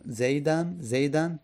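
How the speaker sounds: زیدن ending in "-an", zeydan; tanwin ending. Shown as a demonstration. Teacher listing case endings, زیدن ending "-an".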